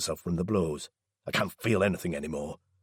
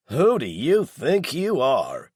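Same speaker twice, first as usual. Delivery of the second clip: higher, louder, slow indignant shout; angry shout; 6 semitones higher, 5 dB louder, slower than usual. A narrator's reading. Daryl pushes Laz back, angry indignant shout. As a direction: shove the words back at him.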